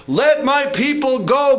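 a solemn divine command; God's command. Retold or imitated. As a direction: proclaim it slow and high. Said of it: "God says".

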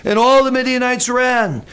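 "all" stretched and pushed; stress on "all". Shown as a demonstration. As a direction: hold "all" long to prove the point. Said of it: "I think all means all".

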